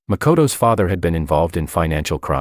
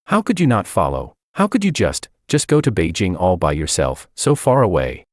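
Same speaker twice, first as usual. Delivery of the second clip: frantic. Acted. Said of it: "jumbled and frantic".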